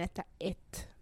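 whispered answer to the listeners; whispered aside. Real, not acted. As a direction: whisper it off to the side. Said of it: "Mä sanon tähän väliin".

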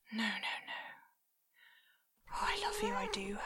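soft loving whisper. Acted. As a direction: whisper sweetly to a pet. Whispering to cat.

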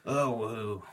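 an annoyed stall keeper brushing off strangers; vexed shopkeeper. Acted. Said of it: "he looks very vexed and he says".

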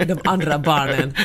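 amused, drawn-out echo through laughter; laughing. Real, not acted. Amused wife echoing husband's jab, laughing. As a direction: repeat it slowly while laughing.

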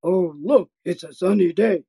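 chest voice. Shown as a demonstration. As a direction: drop it down into the chest, grounded. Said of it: "then we put it into a chest voice".

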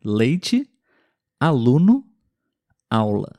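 leite, aluno, aula with the tongue tip on the palate; clear L demo words. Shown as a demonstration. Teacher models L words for learners, clearly. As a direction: model each word slowly for students. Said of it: "Mais uma vez".

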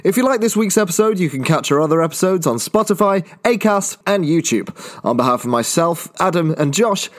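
even, announcer-style outro; podcast outro read. Acted. Host reading the outro credits to listeners, announcer style. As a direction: read it like a sign-off ad.

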